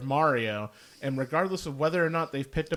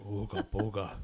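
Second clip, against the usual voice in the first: caveman grunt; 6 semitones lower, 9 dB quieter than usual. Acted.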